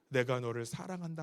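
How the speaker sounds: whisper-close and gentle, like God speaking inside; tender inner voice. Retold or imitated. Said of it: "하는데요".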